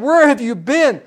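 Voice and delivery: a hint of an annoyed wife at the door; mad wife. Preacher voicing a wife mildly mock-angry at her husband coming home late. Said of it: "your wife's all mad".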